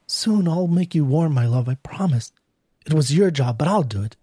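understated, tender vow; lightly voiced devoted wife. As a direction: promise it gently to a lost love. Wife vows to her lost love.

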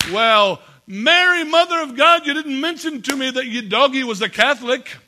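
loud, high-pitched mock astonishment; astonished priest. Priest hearing of a big donation, hammed-up astonishment.

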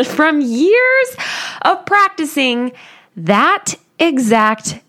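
chuckling at herself as she says it; a real laugh breaking into the words. Real, not acted.

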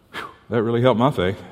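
dry sarcastic aside; facetious. Real, not acted. Pastor mocking the reading's effect on faith, sarcastic. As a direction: say it deadpan, plainly mocking. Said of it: "I'm being facetious".

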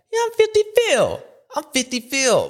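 high hammed-up boast; imitating Phil bragging about his name; mock catchphrase. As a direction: belt it like a swaggering rider. Mocking Phil's catchphrase.

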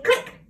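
click sound. Shown as a demonstration. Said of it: "put your fingers on your ears and say".

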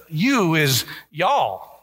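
drawled Texan y'all. Shown as a demonstration. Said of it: "it's the Texan translation".

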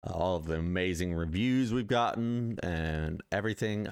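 stuffy, blocked nose; congested. Real, not acted. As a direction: talk through a stuffed-up nose. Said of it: "I'm a little congested".

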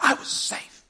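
put-on high, thin voice of a protesting kid; high-pitched mock protest; complaining kid. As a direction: imitate a kid grumbling in the dugout. Acting out kid called out.

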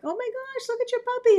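high squealing gush over a puppy; gushing stranger. Retold or imitated.

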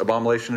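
"abomination" garbled as "abomalation"; stumbled "abomination", ending in "-alation"; mispronounced. Real, not acted. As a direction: say "abomination" with an L for the N, a-bom-a-LAY-shun. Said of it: "I don't think it's abomination".

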